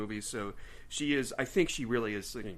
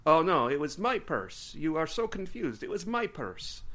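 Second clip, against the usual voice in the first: badly faked French accent; attempted French accent; 4 semitones higher than usual. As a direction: try for some French flavor, slipping toward vampire. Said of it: "trying to put some French flavor".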